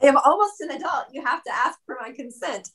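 quick, high mock protest; high-pitched teenage indignation, retold in fun; indignant teenager. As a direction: play up the affronted teen. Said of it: "I was actually angry at my mom".

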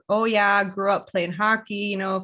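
hammed-up Canadian accent; mock a wannabe Canadian accent. Boyfriend pretending he's fully Canadian, in a mock Canadian accent. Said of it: "trying to talk in a Canadian accent".

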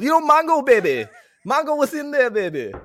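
high, loud mock wrestler voice; hammy wrestling catchphrase shout; hammed-up impression. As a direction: burst into a big, high-pitched showman bit. Sudden hammy catchphrase impression about Mongo.

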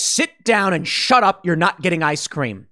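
mild mock stern father; angry dad. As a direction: lay down the law to the kids. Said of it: "coming in like an angry dad".

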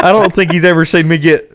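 ordinary talk, nothing marked

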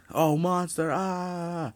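high, loud hammed-up shriek of a scared bystander; mock panic. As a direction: squeal like a hammed-up scared townsperson. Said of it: "why the fuck are people so fucking scared".

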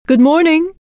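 high, loud call into the house. Acted. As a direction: call out to someone in the next room. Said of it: "She called out".

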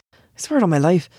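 hushed, breathy swear; whisper. Acted. Man swearing to his friend Sam, whispered. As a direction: swear it under your breath.

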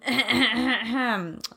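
throat clearing. Real, not acted. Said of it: "scratchy today".

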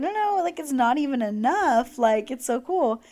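high, eager protest; excited gush. Retold or imitated. Fan gushing to idol about her jewelry, excited. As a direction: gush that it's not enough.

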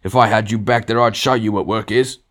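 high, loud blustering tirade; angry dismissal. A narrator's reading. Ghost scorning the murderer who worked under him, angry. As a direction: send him packing like a bullying boss.

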